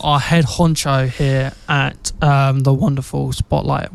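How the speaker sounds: slow, with a cracking voice. Real, not acted. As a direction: voice cracks mid-sentence. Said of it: "Why did my voice crack then as well?".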